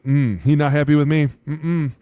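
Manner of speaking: half-joking worried grumble; mock worried player. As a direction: fret to yourself like a scolded player. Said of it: "And you're like".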